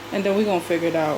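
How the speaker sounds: breathless from cleaning; winded, rushing the words; out of breath. Real, not acted. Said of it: "I'm already out of breath".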